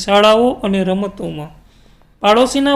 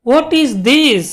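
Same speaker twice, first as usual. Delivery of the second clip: a mild, slow, slightly higher startled question; startled cry; 3 semitones higher, much slower than usual. Acted. Mother sees movement in Reshma's lap, mildly startled. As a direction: ask it as if something just moved in her lap. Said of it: "She cried".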